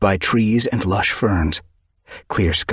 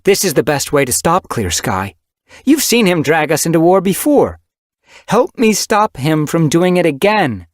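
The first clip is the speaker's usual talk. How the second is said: high, loud, forceful leader cat; commanding she-cat leader rallying the clans; stern clan leader; 10 semitones higher, 5 dB louder than usual. Acted. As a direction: lay down the law to the gathered clans. Windrunner pleads with the clans.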